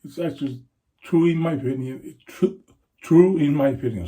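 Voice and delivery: a bit tipsy, tripping over words. Real, not acted. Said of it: "a little bit tipsy".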